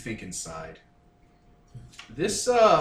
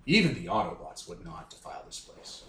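low solemn voice; 6 semitones lower, 7 dB quieter than usual. Acted. Character speaks gravely.

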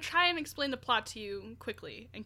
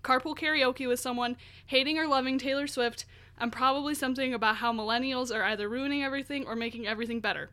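all in one breath. Real, not acted. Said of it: "I'm out of breath".

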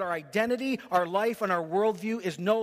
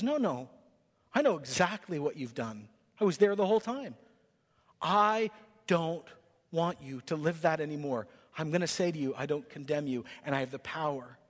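softer, reassuring voice of Jesus; gentle Jesus, softer; 3 semitones lower, 3 dB quieter than usual. Acted. Jesus reassures the ashamed listener, soft and tender. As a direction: comfort someone who thinks God would never want them.

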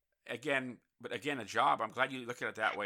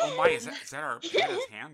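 shocked; 4 dB louder than usual. Acted. Acting shocked casting staff.

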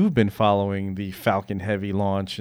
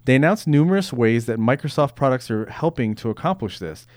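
steady news anchor read. Acted. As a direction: read the story like a newscaster. Reads news rundown item.

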